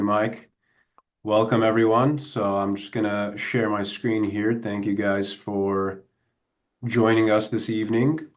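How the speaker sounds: a bit nasal, blocked nose. Real, not acted. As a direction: talk through a stuffy nose. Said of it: "sorry if I sound a little bit nasally".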